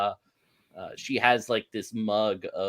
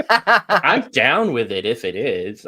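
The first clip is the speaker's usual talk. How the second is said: laughing; 9 dB louder, slower than usual. Real, not acted. Flirty date joke at table.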